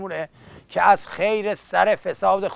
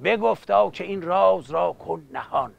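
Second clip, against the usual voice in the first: rhythmic epic verse recital; epic teahouse storyteller. Acted. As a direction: chant it like a coffeehouse bard.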